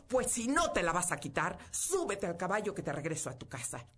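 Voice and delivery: loud, furious command. Acted. Stranger furious at the girl refusing, loud angry order. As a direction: order her home in a rage. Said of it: "se puso furioso".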